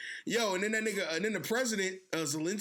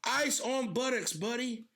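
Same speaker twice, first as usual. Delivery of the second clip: put-on slow, higher old-man threat; Biden; 6 semitones higher, slower than usual. Old president threatening to freeze their asses, mock stern. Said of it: "this nigga Biden was like".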